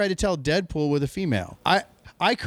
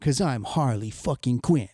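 mocking Harley's line; 4 semitones lower than usual. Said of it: "You knew it was coming".

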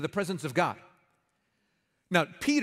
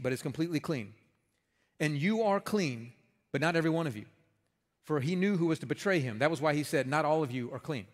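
lower, measured Bible reading; scripture reading; 3 semitones lower than usual. Acted. Reads scripture passage aloud.

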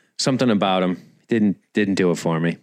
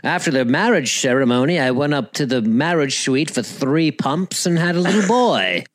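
hammed-up British, slightly raised pitch; bad British accent; 3 semitones higher than usual. Host mocking prim husband's marriage night, bad British accent. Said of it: "shitty rock singer has now a shitty British accent".

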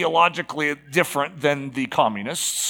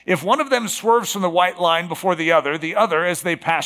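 slightly raised, measured reading voice; reading a quotation; 2 semitones higher than usual. Acted. Preacher quoting Bertrand Russell on chicken, reading aloud. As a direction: read it out as a formal quote.

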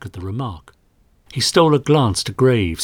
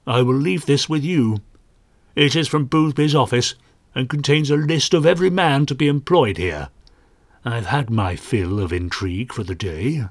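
teasing; 2 semitones higher than usual. Acted. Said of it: "he teased".

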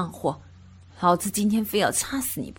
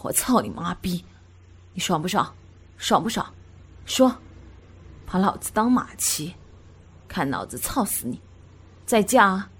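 loud crude man; 3 semitones lower than usual. A narrator's reading. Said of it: "大声地说道".

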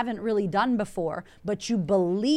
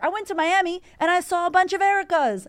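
much higher, louder mock Aussie friend; imitating friends; 9 semitones higher, 5 dB louder than usual. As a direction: play the wide-eyed friend back from Miami.

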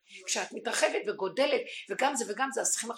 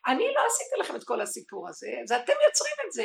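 God flinging the blame back; 2 semitones higher, 5 dB louder, faster than usual. Acted. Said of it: "השם אומר".

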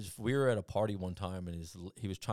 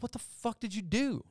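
much higher, rising mock disbelief; shocked; 13 semitones higher than usual. Seeing his friend's burned leg, high shocked disbelief. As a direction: react to the burn in horror.

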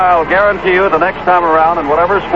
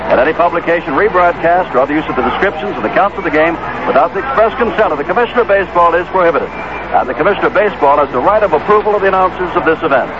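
fast disclaimer read; old radio announcer; faster than usual. Acted. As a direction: rattle off the legal notice. Reads legal disclaimer fast.

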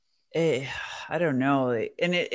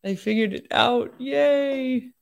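higher, celebratory little cheer; raised pitch, ending in a yay; delighted realization; 7 semitones higher, 4 dB louder, slower than usual. Acted. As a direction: act out the joy of figuring it out. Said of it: "you get that feeling that like".

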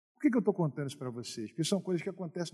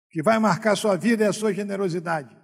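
loud, raised preaching voice; fervent preaching; 5 semitones higher, 8 dB louder than usual. Acted. Pastor exhorting the church to generosity, loud fervent preaching. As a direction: preach it out, full conviction.

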